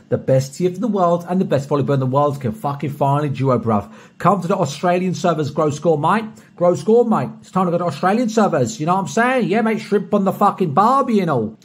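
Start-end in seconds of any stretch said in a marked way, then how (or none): 4.2-11.6 lightly hammed-up Australian accent; Australian impression. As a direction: do a cheesy British attempt at Australian. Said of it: "British people do an Aus-, Australian impression".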